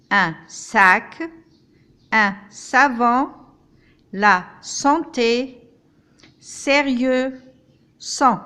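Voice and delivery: each S word said slowly and clearly, s hissed; clear S examples. Shown as a demonstration. Grandmother teacher to pupils, slow clear S words. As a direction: model the S sound slowly for learners.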